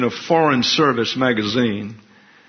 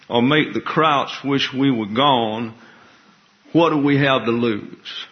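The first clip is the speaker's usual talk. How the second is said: a hint of a Southern Alabama officer, lightly voiced; understated Alabama accent rallying a fellow prisoner. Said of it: "said in his Alabama accent".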